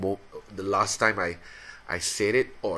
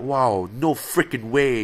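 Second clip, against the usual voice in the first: higher, louder, slow, hammed-up amazement; mock excited exclaim; 6 semitones higher, 5 dB louder, slower than usual. Showing how he swaps in clean words, mock excited. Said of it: "I will cover it up, like".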